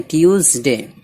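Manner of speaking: ट्यूसडे with a voiced z before the final syllable. Shown as a demonstration. Teacher explaining the letter S, ट्यूसडे said with a z. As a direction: buzz the s in ट्यूसडे as z. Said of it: "एस को जा पढ़ते हैं".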